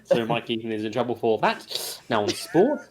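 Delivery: imitating a stilted narrator, slow and low; mock narration, lightly put on; awkward narrator. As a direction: mimic an awkward presenter moving between items. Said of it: "like a very awkward narrator".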